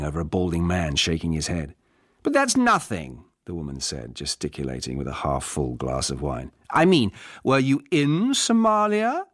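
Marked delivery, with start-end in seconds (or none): 2.2-3.2 a woman shouting down a balding man; shouting over him. Acted. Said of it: "raised her voice, shouting". 6.7-9.2 much higher, louder shout over the bar noise; a woman shouting down a balding man; shouting over him. Acted. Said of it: "raised her voice, shouting".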